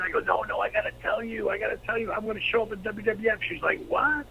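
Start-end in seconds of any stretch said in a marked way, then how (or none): 0.2-3.4 soft but high-pitched pleading; retold hushed urgency; urgent insistence. Urgently tells half-asleep wife. 3.9-4.2 high-pitched imitated "what"; retold shocked question; startled disbelief. Wife reacts to news.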